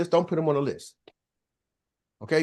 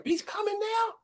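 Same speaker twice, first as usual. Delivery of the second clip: high, softer, incredulous question; imitated disbelief; 13 semitones higher, 7 dB quieter than usual. Mary hearing the dropped speaker is coming, mock disbelief. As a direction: mimic a coworker thrown by the news. Mary reacts to surprise news.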